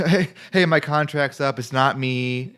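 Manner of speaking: hammed-up breakup apology; mock breakup speech. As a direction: play-act dumping someone, loudly. Jokingly acts out breakup speech.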